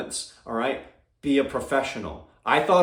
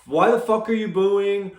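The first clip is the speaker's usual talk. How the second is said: imitating an angry shout, a bit louder; mock-furious at the booing crowd; upset fighter yelling; 4 semitones higher, 4 dB louder than usual. Fighter snapping at the booing crowd, mock angry shout. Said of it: "So upset".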